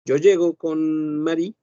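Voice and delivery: ordinary delivery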